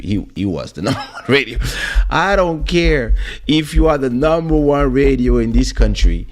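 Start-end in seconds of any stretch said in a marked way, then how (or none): 2.1-6.3 defiant rant. Retold or imitated.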